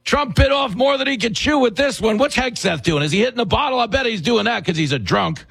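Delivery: high-pitched parody of alarmed pundits; mock media voice. Commentator imitating the media doubting the war, high mocking voice. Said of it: "the media with a straight face goes".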